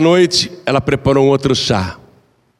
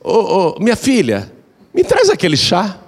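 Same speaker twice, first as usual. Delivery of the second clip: put-on sweetly asking old woman; 5 semitones higher than usual. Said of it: "a sogra até pedia".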